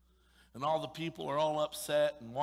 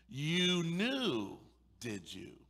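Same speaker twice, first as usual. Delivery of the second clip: sarcastic master; 2 semitones higher, much slower than usual. Acted. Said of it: "that was sarcasm".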